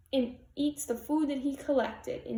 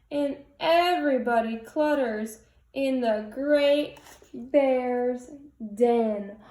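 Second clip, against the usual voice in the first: gentle storybook read-aloud; cozy read-aloud voice; picture book reading; 4 dB louder than usual. A narrator's reading. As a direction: read it like bedtime for little kids.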